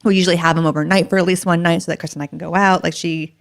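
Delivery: normal talking voice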